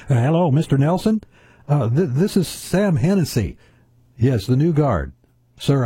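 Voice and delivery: phone the boss apologetically, lightly acting the rookie guard; nervous security guard. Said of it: "he's on the phone as the security guard".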